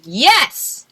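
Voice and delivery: excited. Retold or imitated. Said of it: "And I said".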